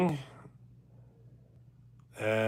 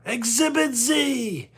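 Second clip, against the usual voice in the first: put-on much higher, slow drawn-out man-child announcement; Pee Wee Herman; 12 semitones higher, slower than usual. Punchline of a bike-theft story, slow high Pee Wee voice. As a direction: stretch it out gleefully like a kid showing off. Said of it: "Pee Wee Herman was just one of a kind".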